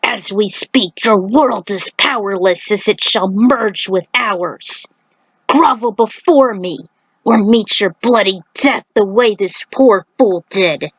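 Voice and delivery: a hint of a slow, haughty beast; understated monster gloat; lightly voiced menacing centaur. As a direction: threaten the puny human, unhurried. Centaur continues threatening.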